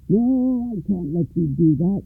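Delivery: put-on wheezy, breathless old voice; wheezing old man. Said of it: "wheezed the man".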